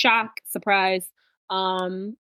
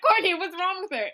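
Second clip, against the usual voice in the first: high, worried plea; panicked friends; 9 semitones higher than usual. Retold or imitated. Friends pleading with Courtney, high and panicked. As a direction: whine it at Courtney, scared. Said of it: "they're like".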